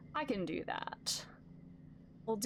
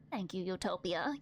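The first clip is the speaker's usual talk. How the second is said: warm; 4 semitones lower than usual. Acted. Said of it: "Yuriko says warmly".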